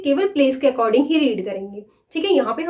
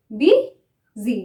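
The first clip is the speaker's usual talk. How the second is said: drawn-out demo word; 3 semitones lower than usual. Shown as a demonstration. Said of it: "busy को हम बोल के देखेंगे".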